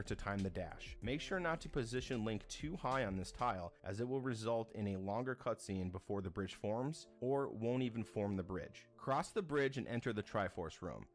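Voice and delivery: steady, even guide read; walk the viewer through each step calmly; tutorial narration. Acted. Narrating a speedrun guide to viewers, measured and even.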